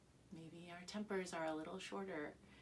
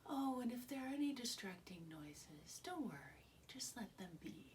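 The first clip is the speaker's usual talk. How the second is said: calm; 4 semitones higher than usual. Retold or imitated. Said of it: "and I very calmly said".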